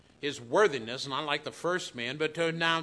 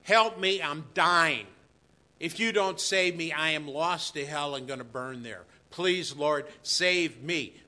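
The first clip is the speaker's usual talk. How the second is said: desperate plea; 2 semitones higher, 5 dB louder than usual. Retold or imitated. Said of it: "And it means".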